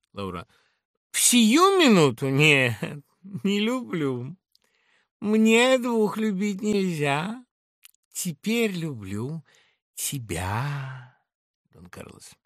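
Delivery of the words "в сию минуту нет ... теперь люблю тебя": high, teasing answer; playful denial then tender; Laura, flirting. Acted. Laura voiced by reader.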